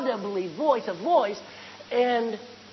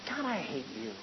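bitter; 8 semitones lower, 10 dB quieter than usual. Acted. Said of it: "you know what you're saying to God".

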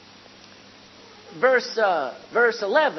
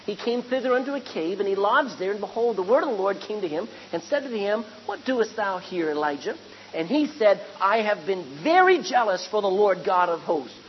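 scripture reading. Acted.

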